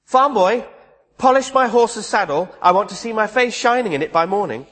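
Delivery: high, imperious order to a servant; bossy princess. Retold or imitated. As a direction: boss the farm boy around, a little haughty. Buttercup orders the farm boy.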